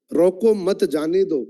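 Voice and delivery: "रोको मत जाने दो" slowly in one run; no clear pause. Shown as a demonstration. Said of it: "line एक ही है". ("रोको मत जाने दो" धीरे, एक साथ)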